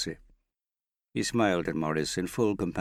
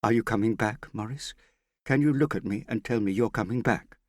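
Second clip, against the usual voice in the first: demanding; 7 semitones higher, 4 dB louder than usual. A narrator's reading. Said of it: "she demanded".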